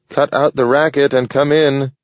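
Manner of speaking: yelling. A narrator's reading. Old dog yelling at whoever knocks, irritated. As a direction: bark it at the noise outside. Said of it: "he yelled".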